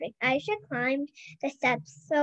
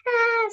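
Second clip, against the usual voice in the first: scream; 8 semitones higher, 4 dB louder than usual. A narrator's reading. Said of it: "screamed the volcano".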